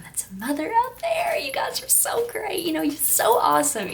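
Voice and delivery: hushed, breathy tribute; whispered praise. Real, not acted. Vlogger whispering praise to all mothers. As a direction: whisper it like a secret compliment. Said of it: "applauding mothers".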